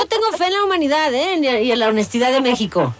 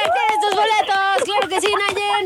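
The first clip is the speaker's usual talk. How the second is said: gritando de alegría; 7 semitones higher than usual. Real, not acted. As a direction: shout out the win like a game host. Host announces the winner. (anuncio a gritos)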